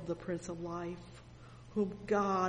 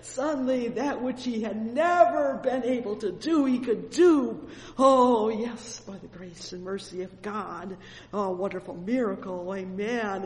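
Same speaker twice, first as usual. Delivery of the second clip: fervent preaching; 3 semitones higher, 8 dB louder than usual. Acted. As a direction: preach it out in full joy. Preacher exults over healed man.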